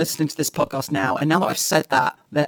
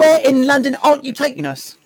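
hammed-up mock cockney accent, pitched higher; Dick Van Dyke cockney; 9 semitones higher, 6 dB louder than usual. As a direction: play a Mary Poppins chimney sweep in a cockney accent. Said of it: "Dick Van Dyke".

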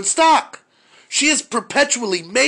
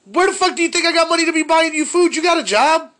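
retold angry father; 9 semitones higher than usual. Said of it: "I was like".

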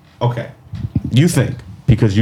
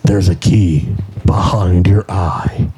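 Jigsaw voice; 5 semitones lower, slower than usual. Retold or imitated. Jigsaw quote acted out.

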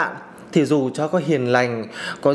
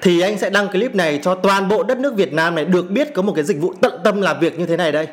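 angry; 3 semitones higher than usual. Real, not acted. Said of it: "cái cảm xúc của mình nó rất là dữ dội".

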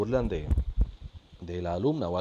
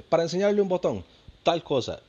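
higher and louder mock old lady; mimicking the lady; 8 semitones higher, 6 dB louder than usual. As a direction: play the friend proudly misquoting. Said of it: "Y dice".

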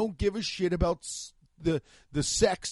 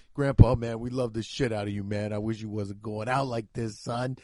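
mock grandkid voice; 7 semitones lower than usual. Grandkid at grandpa's deathbed, low mock voice. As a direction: drop the pitch for a comic grandkid. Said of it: "my grandkids are gonna come in like".

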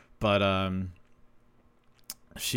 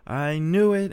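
much higher and louder imitated mom crowing; triumphant outburst; 10 semitones higher, 6 dB louder than usual. Mom hears her son is seeing someone, triumphant high crowing. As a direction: crow it like a mom proven right. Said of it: "my mom loses her shit".

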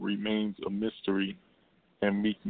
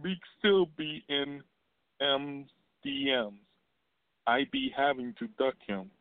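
imitating a rapper again; 5 semitones higher than usual. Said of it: "let me say it again".

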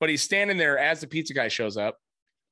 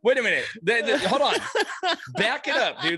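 retold disbelief; 6 semitones higher than usual. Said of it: "I'm like".

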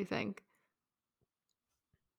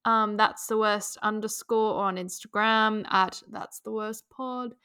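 put-on British accent; 2 semitones higher than usual. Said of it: "Should I do this in a British accent?".

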